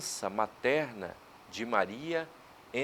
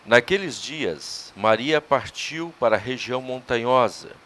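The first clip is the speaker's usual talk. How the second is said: louder, measured liturgical reading of scripture; Gospel proclamation; 8 dB louder than usual. Acted. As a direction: proclaim the Gospel solemnly to the congregation. (leitura solene do Evangelho)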